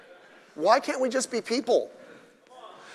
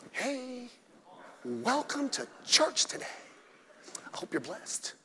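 much softer, sweet-toned church greeter parody; mock sugary greeter; 4 semitones higher, 11 dB quieter than usual. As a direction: coo the welcome to mock soft church talk. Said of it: "no one talks like that".

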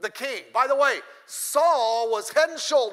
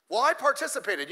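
a mildly smug take on "participated"; mock proud excuse; 3 semitones higher than usual. Pastor mocks a proud participant, mildly smug. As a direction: say it like it counts as a win. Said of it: "You know what participation means?".

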